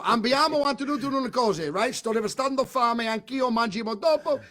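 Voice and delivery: fake Italian. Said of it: "So the words are".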